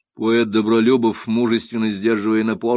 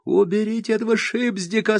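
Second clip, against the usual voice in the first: moaned; 13 semitones higher than usual. A narrator's reading. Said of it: "стонет Василь".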